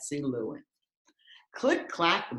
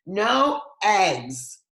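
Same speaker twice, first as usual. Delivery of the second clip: defiant strike note; 4 semitones higher, 5 dB louder, much slower than usual. Acted. Hens' strike note read out.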